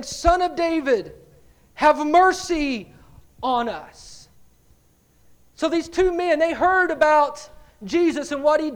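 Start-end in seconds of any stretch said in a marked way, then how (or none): 0.0-4.3 drawn-out, raised plea, falling away at the end; crying out. Retold or imitated. Preacher reading the blind men's plea to Jesus, mild crying out. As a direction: read it as a measured cry for mercy. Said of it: "crying out and saying".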